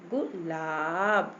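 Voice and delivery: गुलाब with a quick "gu", then a long "laab"; quick short vowel. Shown as a demonstration. Teacher showing the short u matra, quick first syllable. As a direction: clip the gu of गुलाब, hold the laab. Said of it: "जल्दी से बोल गई".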